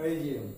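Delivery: রিজিউম as ri-jiom; low falling রিজিউম, ri-jiom; common pronunciation. Shown as a demonstration. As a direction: say রিজিউম with a j and no final e. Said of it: "আমরা এটাকে বলে থাকি".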